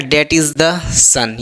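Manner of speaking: That is the son read word by word, very slowly; slow dictation. Shown as a demonstration. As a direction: spell out each word for the class at x0.2 pace. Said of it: "लिखता है क्या". (बहुत धीरे, शब्द-शब्द बोलकर)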